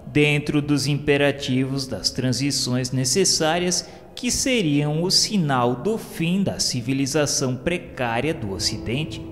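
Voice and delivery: ordinary talk, nothing marked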